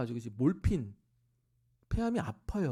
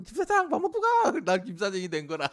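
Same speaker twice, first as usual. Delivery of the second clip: much higher, louder put-on voice of a pushy mother; bossy mother imitation; 7 semitones higher, 9 dB louder than usual. Mother ordering the worker to set the table, high and loud. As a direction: bark the order like a brash old mother.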